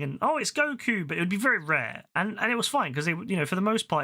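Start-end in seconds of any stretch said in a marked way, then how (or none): 0.2-1.1 high-pitched imitation of a thrilled child; excited kid. Kid spotting Goku in the cinema, excited imitation. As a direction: mimic a kid's eager blurt, pitched up. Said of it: "it was just an excited kid".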